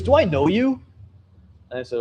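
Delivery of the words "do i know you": pitched way up, puzzled and intrigued; curious surprised question. Retold or imitated. Backpacker girl squinting at the vlogger, surprised. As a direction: ask like a face half-recognized. Girl at campfire recognizing him.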